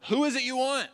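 a lightly voiced commanding Jesus, high. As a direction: call it out to the mob. Jesus confronting the soldiers.

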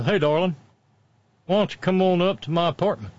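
hammed-up flirty invitation; mock come-on. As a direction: play a sleazy caller inviting someone over. Voicing the politician's late-night come-on.

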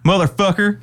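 high-pitched Southern twang. Acted. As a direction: swear in an exaggerated Southern accent. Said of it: "I just went to, like, way Southern".

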